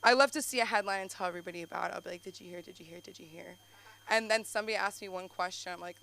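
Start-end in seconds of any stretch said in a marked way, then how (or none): 2.2-3.6 gossipy. Retold or imitated. Imitates self eagerly spreading a headline.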